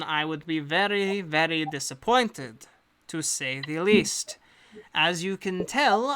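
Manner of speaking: a lightly put-on accent for a composed agent; the employer briefing hired adventurers in her accent; hint of a foreign accent; accent NPC voice. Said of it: "she always has the accent".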